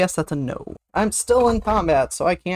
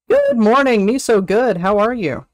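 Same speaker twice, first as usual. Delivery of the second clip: cheery greeting; 5 semitones higher, 5 dB louder than usual. Real, not acted. Greeting a viewer loudly.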